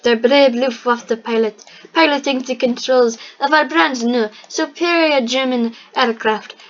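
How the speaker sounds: a light put-on German accent; mock German accent. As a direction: announce the brave pilot in a hammed-up German accent. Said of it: "the German accent".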